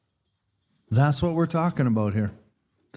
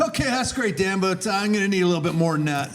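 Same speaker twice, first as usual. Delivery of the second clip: half-joking impatient comeback; exasperated retort; 3 semitones higher, faster than usual. Retold or imitated. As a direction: retell snapping back at a friend with a touch of sarcasm. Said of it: "And I said".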